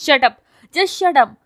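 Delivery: all-out angry shriek; screaming. Acted. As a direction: scream at him to shut up. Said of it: "وہ زور سے چلائی".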